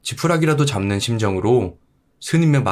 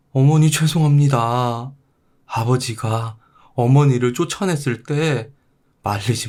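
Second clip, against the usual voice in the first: remorseful son; 3 semitones higher than usual. Acted. Grown son finding his mother and begging forgiveness, remorseful.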